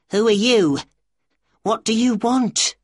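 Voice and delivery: very high, alarmed little voice; weak, startled questioning. A narrator's reading. Little man stopped by a stranger, weak high voice. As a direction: ask it weakly, pitched right up, startled. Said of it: "he asked weakly".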